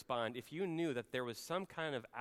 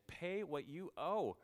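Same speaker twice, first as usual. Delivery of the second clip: menacing demand; 6 semitones higher, slower than usual. Acted. Servant voiced choking debtor.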